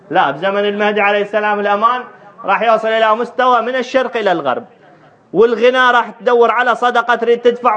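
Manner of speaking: preacher's high, carrying promise. Acted. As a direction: proclaim it to the congregation in a lifted voice. Preaches with raised voice.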